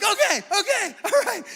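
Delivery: high, laughing okays; husband laughing nervously at the news. Retold or imitated. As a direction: laugh off the panic.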